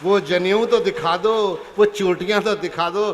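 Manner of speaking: loud, slow challenge to the crowd; rousing demand. Acted. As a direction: call the crowd out, slowly.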